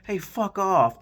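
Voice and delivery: loud, high imitated telling-off; mock angry outburst. Vinny tells the kids off over the score, loud mock anger. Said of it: "and he's like".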